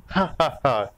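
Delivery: acted girl's peal of laughter; light "ha ha ha" laugh; innocent giggle. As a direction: giggle away merrily. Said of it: "मासूम हंसी को सुनकर".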